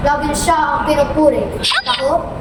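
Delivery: remorseful middle brother, low projected voice; low, conflicted stage monologue rising toward determination; Don Diego. Acted. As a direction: confess guilt in measured phrases, then find resolve.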